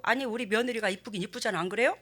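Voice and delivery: ordinary delivery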